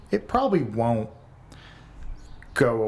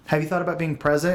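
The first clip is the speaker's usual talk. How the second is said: imitating therapist; 6 semitones higher, faster than usual. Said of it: "her solution to everything was".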